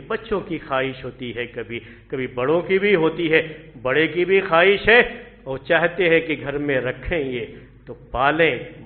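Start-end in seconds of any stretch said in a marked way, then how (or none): none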